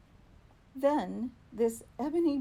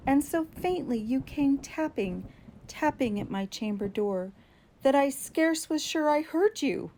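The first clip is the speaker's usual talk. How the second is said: higher and louder, hurried polite plea; eager apology; 6 semitones higher, 3 dB louder than usual. Acted. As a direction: call out an apology to whoever knocks. Apologizing to unseen visitor at door.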